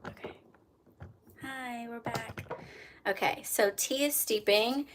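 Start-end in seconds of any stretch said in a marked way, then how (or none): 0.1-0.3 soft whispered aside; whispering. Real, not acted. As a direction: whisper it to yourself.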